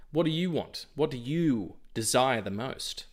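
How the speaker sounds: grand mystic genie asking. Acted. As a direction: offer wishes like a genie. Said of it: "I sound like a genie".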